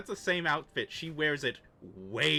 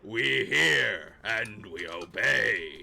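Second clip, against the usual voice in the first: slow zombie drone; 5 semitones lower, 5 dB louder, much slower than usual. Acted. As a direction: chant it like mindless undead. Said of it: "zombie voice".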